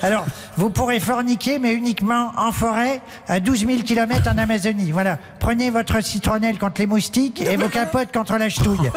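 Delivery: lightly voiced old cardinal; old man voice. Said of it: "j'ai qu'une voix de vieux".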